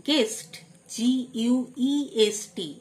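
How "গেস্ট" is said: "গেস্ট" with no U after the G; silent U. Shown as a demonstration. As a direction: say "গেস্ট", hard G straight into "এ". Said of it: "ইউ silent". ("গেস্ট", ইউ উচ্চারণ না করে)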